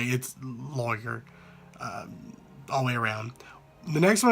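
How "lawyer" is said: "lawyer" said LAW-er; "lawyer" drawn out as LAW-er; Southern lawyer. Shown as a demonstration. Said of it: "No matter how hard I try".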